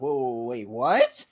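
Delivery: low whoas building to a loud, rising "what?"; mock disbelief. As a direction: play a mildly stunned double take. Player's acted reaction to plot reveal.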